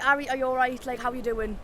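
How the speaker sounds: everyday chatty broad Geordie. Shown as a demonstration. Geordie chatting to a friend, broad accent. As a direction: talk in your normal Geordie accent. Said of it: "I think I'm quite broad normally".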